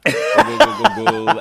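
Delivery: very high, loud mock cheering chant. Joking with the cohost, a high loud mock cheer. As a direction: cheer it like a rowdy fan.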